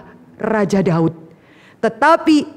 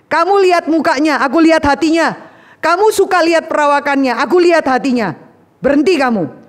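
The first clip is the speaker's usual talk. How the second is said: God rebuking; 4 semitones higher, faster than usual. Acted. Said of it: "Tuhan bilang apa?".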